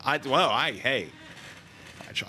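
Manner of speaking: ordinary delivery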